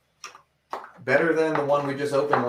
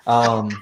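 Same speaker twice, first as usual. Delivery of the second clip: machine gun sounds; 7 dB louder than usual. Acted. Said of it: "I knew you'd make the fucking noise".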